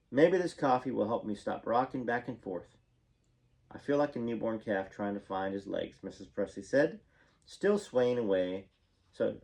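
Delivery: lively read-aloud memoir with lifted phrase openings; story narration. A narrator's reading. Memoir author reading a story about a famous singer to viewers, animated narration.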